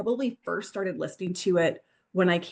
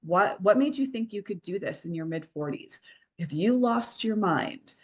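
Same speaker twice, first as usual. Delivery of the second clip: mock loud inner critic; 3 semitones higher than usual. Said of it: "the loud voice is going".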